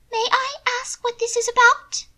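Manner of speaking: high, loud haughty lady; high haughty young lady; proud sarcasm. A narrator's reading. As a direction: toss it off with lofty scorn. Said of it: "Mina inquired".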